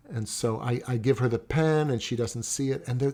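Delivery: normal talking voice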